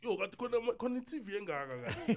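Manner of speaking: high-pitched retold astonishment; amazed reaction.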